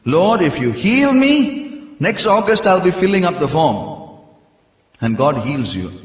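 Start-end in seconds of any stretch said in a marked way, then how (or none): 0.1-1.4 higher, louder, eager plea; eager vow. Shown as a demonstration. Preacher acting out a believer's eager vow to God. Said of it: "How many of you made that covenant". 2.0-3.8 mock desperate vow.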